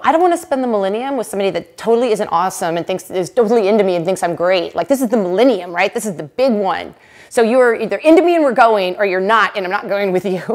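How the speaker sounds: fast, loud, emphatic ultimatum; blunt millennium ultimatum to a new boyfriend; retold ultimatum. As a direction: lay it down hard and fast.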